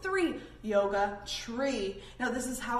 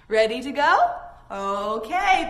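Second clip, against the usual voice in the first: calling out; 9 dB louder than usual. Real, not acted. Starting the game, calling out.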